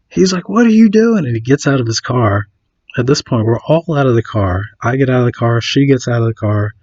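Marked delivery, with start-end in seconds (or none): 0.5-1.2 high-pitched mock outrage; retold angry demand. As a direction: imitate a mad driver demanding answers. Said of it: "he's getting all mad".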